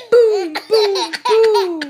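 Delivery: loud booming boom; thunder boom. Acted. Reading to a child, booming like thunder. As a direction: roll it out like thunder. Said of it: "Mister Brown makes thunder".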